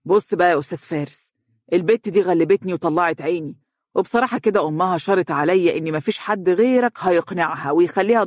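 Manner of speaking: exasperated father, quick at first; fed up with his daughter; irritated. Acted. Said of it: "وقال بحنق". (بحنق وضيق)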